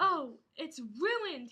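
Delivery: slow mock moan. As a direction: moan over the ruined sword. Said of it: "he moaned".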